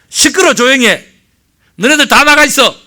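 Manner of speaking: Jesus silencing the wailing mourners, shouting; commanding shout. Retold or imitated. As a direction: order the noisy crowd out firmly.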